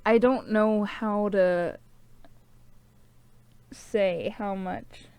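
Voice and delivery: halting, choked-up sincerity; slow, struggling to get it out through tears; real tearful. Real, not acted. Thanking viewers for being here, tearful and halting. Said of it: "I'm crying".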